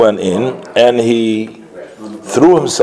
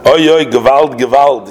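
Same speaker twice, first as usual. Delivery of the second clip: raised, pleading cry of oy gewalt; crying lament; 5 semitones higher than usual. Retold or imitated. The Rebbe crying out to his teachers, raised anguished plea. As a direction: call out in mock anguish. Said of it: "with a crying voice".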